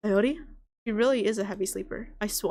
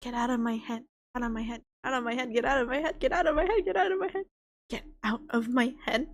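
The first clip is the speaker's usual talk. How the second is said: eerie poem reading. Acted. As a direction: read it like a haunting, obsessive poem. Reads the eerie poem aloud.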